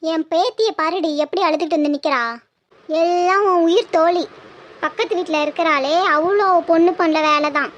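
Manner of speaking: put-on slightly low, grumbling old mother-in-law; lightly voiced granny telling off her daughter-in-law; scolding grandmother. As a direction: complain like an indignant grandmother.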